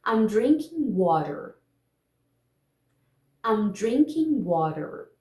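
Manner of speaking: slow model sentence with "water" tapped; American "water" with a quick tap for T; flap T demo. Shown as a demonstration. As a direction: say it slowly for learners to repeat, flap T in "water". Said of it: "Eu vou falar a frase".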